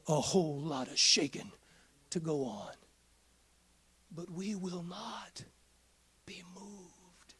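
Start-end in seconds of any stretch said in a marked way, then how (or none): 4.1-7.3 whispered conviction. Acted. Quiet assurance amid sermon.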